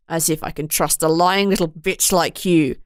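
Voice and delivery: ferocious sneer in a low voice. Acted. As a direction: spit it out ferociously. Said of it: "with such ferocity".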